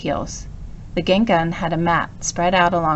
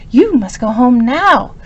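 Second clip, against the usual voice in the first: slow, louder stern order; 5 semitones higher, 7 dB louder, slower than usual. A narrator's reading. Professor sending his puppy home, slow stern order. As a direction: point and order him home firmly. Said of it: "spoke in a stern voice".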